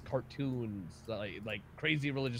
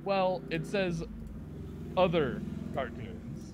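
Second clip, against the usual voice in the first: imitated guy host; 5 semitones higher, slower than usual. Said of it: "the guy's like".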